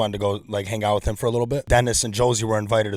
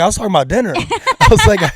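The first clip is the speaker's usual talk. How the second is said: laughing through the words, high; squeaky giggling confession; 9 semitones higher, 9 dB louder than usual. Real, not acted. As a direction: crack up while retelling. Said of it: "dying laughing".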